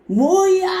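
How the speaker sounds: high, loud, indignant outburst as retold; angry outburst. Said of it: "이렇게 화가 났어요".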